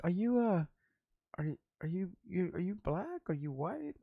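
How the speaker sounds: high, cooing imitation of a flirting caller; mock flirty woman. Mocking women who called the shop, in a high cooing voice. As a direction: coo it up high like a smitten caller.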